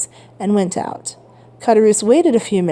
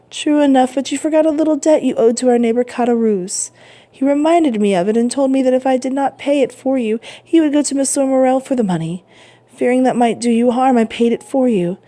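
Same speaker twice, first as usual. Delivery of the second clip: put-on lightly raised, gentle old man; old father voice; 5 semitones higher than usual.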